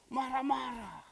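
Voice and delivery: loud, high exclaimed repeat; loud astonished echo; emphatic echo. Retold or imitated. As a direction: throw the word out in amazement. Pastor echoing with emphasis.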